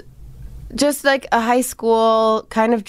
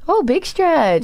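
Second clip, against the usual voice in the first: imitating a friend; 6 semitones higher, slower than usual. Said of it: "announcing his own big stretch".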